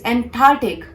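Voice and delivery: "Antarctic" as an-TAR-tik; "Antarctic" separated into ant and artik; correct Antarctic. Shown as a demonstration. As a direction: hit a crisp T in "Antarctic". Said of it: "this is Antarctic".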